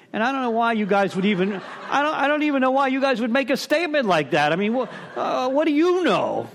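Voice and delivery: laughing. Real, not acted. Laughing at the mentors' prediction.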